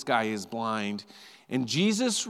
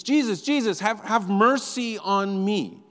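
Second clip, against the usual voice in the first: higher, pleading call, slowing on mercy; imitating a cry out; 8 semitones higher, 5 dB louder, slower than usual. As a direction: cry out to Jesus for mercy, retold. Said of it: "and he's crying out".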